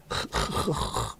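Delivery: throaty "khh-khh" rasp, imitating Scouse; imitated Scouse throatiness. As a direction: mimic harsh Scouse throat sounds, no words. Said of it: "Scouse has got more aggressive".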